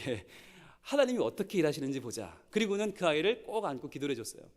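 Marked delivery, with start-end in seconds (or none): 0.8-2.4 a touch softer, settled conviction; quiet firm faith. Retold or imitated. Preacher repeating the teacher's words to the teachers. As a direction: repeat it calmly, with weight. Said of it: "이렇게 말하는 분들이 무서운 분들입니다".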